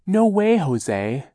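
high, loud flustered aunt; shrill refusal. A narrator's reading.

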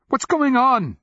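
very high, loud, frantic demand; urgent high yell; cried out. A narrator's reading. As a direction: cry it out at the top of your voice. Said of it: "he cried".

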